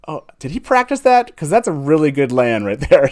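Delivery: replaying his own delighted reaction at rehearsal; impressed surprise. Host recalls hearing Jason's Lan voice, impressed. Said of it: "I was like".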